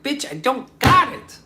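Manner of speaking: high, loud put-on voice; mock outburst. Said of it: "And I was like".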